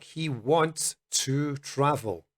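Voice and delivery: slow, clear he wants to travel; slow example. Shown as a demonstration. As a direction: read the example slowly. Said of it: "a sentence like".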